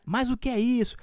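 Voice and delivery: high mock scolding, like catching a pet; playful telling-off of a naughty dog. Teacher repeats the pretend scolding of the dog, high-pitched. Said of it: "O que que você vai falar?".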